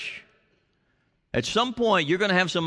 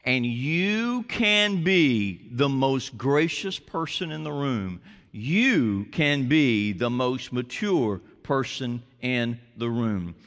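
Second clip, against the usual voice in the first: gentle refrain; 4 semitones lower, slower than usual. Acted. Sermon's gentle closing refrain.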